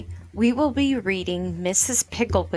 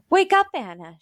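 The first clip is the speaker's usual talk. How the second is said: higher, louder urgent wake-up; scary and urgent; 4 semitones higher, 4 dB louder, faster than usual. Acted. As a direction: rouse her sister with mock alarm. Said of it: "making her voice scary and urgent".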